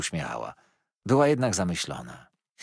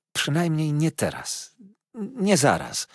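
tender pleading; 8 semitones higher, slower than usual. A narrator's reading. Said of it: "prosiła tkliwie moja matka".

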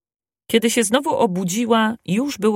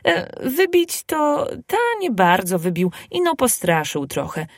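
laughing; 4 semitones higher than usual. Acted. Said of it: "rzecze śmiejąc się Kubuś".

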